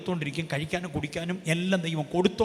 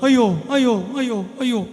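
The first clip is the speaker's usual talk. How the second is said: lightly hammed-up wail, higher and louder; mock wailing; 6 semitones higher, 4 dB louder, faster than usual. Preacher mimicking a complaining believer, mock wail. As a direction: play a whiny lamenter crying out.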